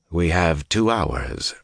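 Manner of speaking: slow, measured cold statement. Acted. Rand sets Asmodean the deadline, slow and cold. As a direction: state it coldly, taking your time. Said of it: "Rand said coldly".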